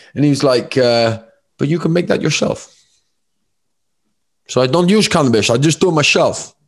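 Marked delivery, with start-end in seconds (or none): 1.6-6.5 put-on generic Dutch accent, pitched up. Quoting a Q and A answer about cannabis: Wim Hof impression, generic Dutch accent. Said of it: "my generic Dutch accent".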